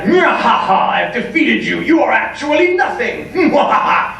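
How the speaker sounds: hammed-up evil mwahaha gloating; villain gloat. Villain gloating over the beaten hero, hammed-up evil laugh. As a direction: cackle over the fallen hero.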